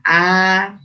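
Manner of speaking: held "A" with the mouth fully open; clear, drawn-out demo "A"; fully open fathah. Shown as a demonstration. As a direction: open "A" wide and sustain it. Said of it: "fathah harus terbuka secara sempurna".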